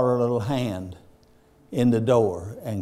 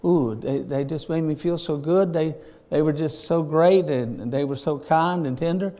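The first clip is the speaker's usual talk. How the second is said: gushing; 3 semitones higher than usual. Retold or imitated. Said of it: "and I say".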